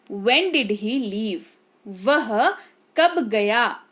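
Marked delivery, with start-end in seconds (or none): 0.1-1.4 very slow, clear teaching read; slow model sentence. Shown as a demonstration. Teacher modelling sentence slowly for the class. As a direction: say When did he leave? word by word, slowly. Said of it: "teacher models English sentence".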